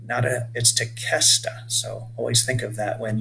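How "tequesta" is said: "Tequesta" as tuh-KES-tuh, stressing KES; careful model of "Tequesta" with hard K; K sound. Shown as a demonstration. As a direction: sound the QUE in "Tequesta" as a plain K. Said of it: "is a K sound".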